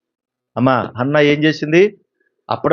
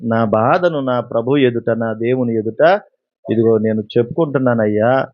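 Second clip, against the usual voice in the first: humble plea; 2 semitones lower than usual. Retold or imitated. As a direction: pour out your grief humbly to the priest. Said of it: "కానీ Hannah ఏమంది?".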